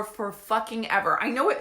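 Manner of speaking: ordinary delivery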